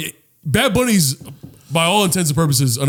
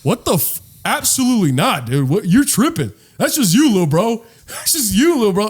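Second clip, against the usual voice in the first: mock outraged retort; 4 semitones higher than usual. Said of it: "black people going".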